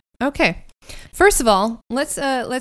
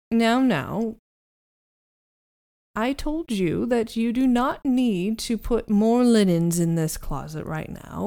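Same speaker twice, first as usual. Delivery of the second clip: lightly voiced reproving butler; slow, measured telling-off in a light butler role; a touch of stern household butler; muffled butler. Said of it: "the muffled voice of the butler".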